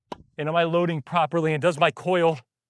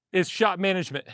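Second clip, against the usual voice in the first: ordinary talk, nothing marked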